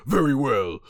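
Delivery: lightly acted proud surrender; Vegeta. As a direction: give in grudgingly, dropping off at the end. Redoes Vegeta's reluctant concession.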